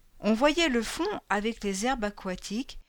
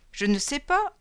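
high nasal little imp voice; nasal leprechaun voice; 5 semitones higher than usual. Acted. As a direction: pinch it through the nose like a goblin. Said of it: "a nasillé la voix de lutin".

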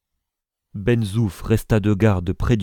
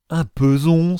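high, loud cry of shock; startled exclamation; 8 semitones higher, 6 dB louder than usual. A narrator's reading. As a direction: exclaim as if asked for a fortune. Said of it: "s'écria Isaac". (exclamation stupéfaite)

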